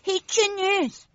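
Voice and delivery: Simon losing hope, voice faltering; trembling voice. Acted. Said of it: "با صدایی لرزان گفت".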